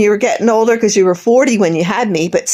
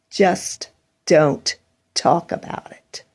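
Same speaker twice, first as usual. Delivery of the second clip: low, soft near-whisper; hushed; 5 semitones lower, 5 dB quieter, slower than usual. Real, not acted. Repeating her plea to stop talking about it, hushed. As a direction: drop to a breathy hush.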